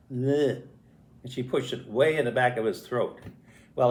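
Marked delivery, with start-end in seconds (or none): 0.1-0.6 mock "bleh" of effort; imitated shoving noise. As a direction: make a comic stuffing sound. Imitates shoving grape in mouth.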